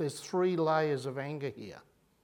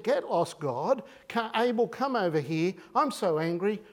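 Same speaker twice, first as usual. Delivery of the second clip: angry Cain; 4 semitones higher, 4 dB louder than usual. Pretend. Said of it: "and he said".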